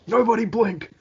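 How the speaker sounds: mock game shout. Interviewer quotes a Street Fighter line, mock shouting. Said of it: "Is it weird shouting".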